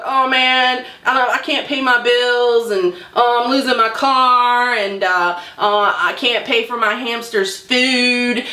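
lightly whiny imitation of a sob story; mock whining. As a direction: drag out the woes in a mock complaint. Mimicking catfishers' sob stories.

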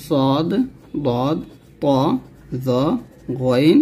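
সদ and বদ said heavy and rounded; heavy Arabic letters, সদ to গইন; thick letters. Shown as a demonstration. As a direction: give each letter from সদ to গইন a full, thick sound. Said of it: "সাতটা হরফ অবশ্যই মোটা".

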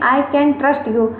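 slow Indian English, can said with a plain t; Indian accent. Shown as a demonstration. Teacher showing students the Indian accent, slow Indian English. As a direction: say it the Indian way, slowly and evenly. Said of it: "आप लोग Indian accent में बोलेंगे".

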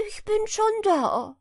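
high, loud triumphant call. A narrator's reading. Hedgehog's wife calls out to the hare, high and taunting. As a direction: stretch schon, taunting. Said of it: "rief ihm die Frau des Igels entgegen".

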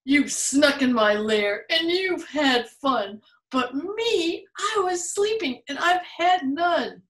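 a hurt, left-out bear; whimpering bear. Acted. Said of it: "And he whimpers".

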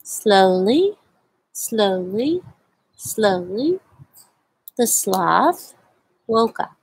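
slow, drawn-out story reading; slow read-aloud. A narrator's reading. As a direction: read at a sloth's pace. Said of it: "I like to read this book very slowly".

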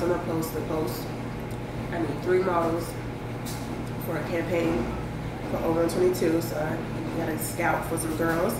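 eating between words; talking while chewing. Real, not acted. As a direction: mouth partly full. Seen 1: forkfuls of yellow food raised to mouth between phrases.

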